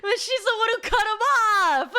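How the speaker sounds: high, loud, fast through laughter; laughing. Real, not acted. Laughing that the sister caused the cutoff, amused. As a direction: giggle out the punchline.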